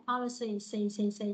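"policy" dropping on its last syllable; low falling tone on the end of "policy". Shown as a demonstration. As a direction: let "policy" sink, then isolate the low "xì". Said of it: "Và xuống như này".

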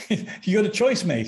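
blunt advice in a put-on Yorkshire accent. Exorcist leaving the choice to his friend, imitated Yorkshire accent. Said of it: "he said, in his Yorkshire".

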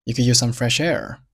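"You could use some fresh air" strung together smoothly; linked connected speech. Shown as a demonstration. Teacher strings "You could use some fresh air" together for learners, fully linked. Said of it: "第一句话串起来".

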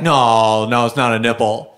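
low dumb stubborn guy voice; stubborn man. Retold or imitated. Man denies it to the vet, low and stubborn. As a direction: deepen it into a stubborn denial.

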